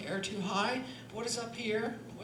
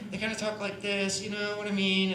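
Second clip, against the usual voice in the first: imitating Americans talking with barely opened mouths; mock American speech, tight and closed; 4 dB louder than usual. Shown as a demonstration. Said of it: "everything's tight and closed".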